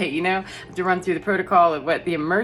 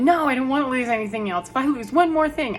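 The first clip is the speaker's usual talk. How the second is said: distressed; 7 semitones higher than usual. Retold or imitated. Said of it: "it triggered the part of me that went".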